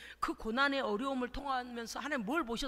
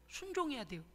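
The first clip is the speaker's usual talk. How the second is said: 순종해야 said again, softer and gentle, falling; soft follow-up on 순종해야; softer repeat; 6 dB quieter than usual. Real, not acted. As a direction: echo 순종해야 quietly to let it sink in. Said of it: "repeated exhortation".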